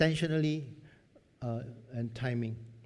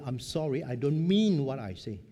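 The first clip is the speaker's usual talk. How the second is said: earnest confession; 7 dB louder than usual. Retold or imitated. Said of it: "come back and say".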